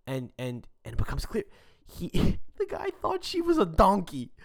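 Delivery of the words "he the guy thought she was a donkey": laughing. Real, not acted. Laughing disbelief at the story.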